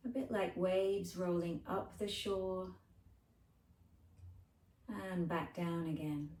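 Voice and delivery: unhurried guided breathing voice; gentle meditation lead with lingering phrases; guided relaxation. Acted.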